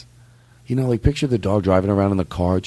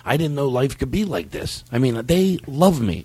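dog voice; 4 semitones lower than usual. Pretend. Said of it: "should I put on the dog voice".

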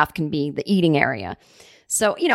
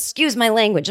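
raised-pitch Boston delivery guy; Boston accent; 4 semitones higher than usual. Retold or imitated. Delivery guy excusing his swearing to a customer, Boston accent. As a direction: apologize in a mock Boston accent. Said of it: "I'm giving him a Boston".

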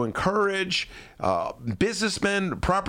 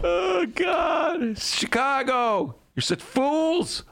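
exasperated shout; 10 semitones higher, much slower than usual. Real, not acted. Exasperated outburst at Chicagoans.

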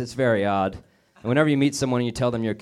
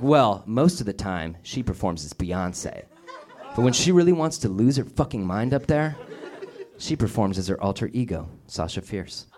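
patient explaining; 3 semitones lower than usual. Retold or imitated. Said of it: "she very patiently explained".

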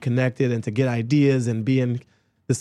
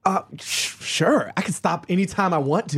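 higher, defensive insistence; comically defensive, pitched up; mock denial; 5 semitones higher than usual. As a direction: play at protesting like an addict in denial. Jokes as an addict in denial.

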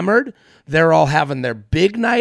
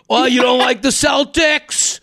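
mock Boston sports fan, pitched up; slow, indignant Boston heckle; Boston accent; 5 semitones higher than usual. Celtics fan challenging a non-fan, in a Boston accent. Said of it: "do it in the Boston accent".

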